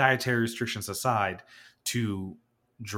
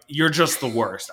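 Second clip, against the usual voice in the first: slow, louder, deliberate put-down; deadpan insult; 3 semitones higher, 6 dB louder than usual. Retold or imitated. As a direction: lay it on slowly, every word landing. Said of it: "I said it just like that".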